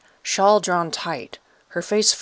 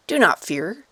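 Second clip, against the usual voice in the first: light raspy voice; 3 semitones higher than usual. Acted. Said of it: "in slow Italian, using a light, raspy voice".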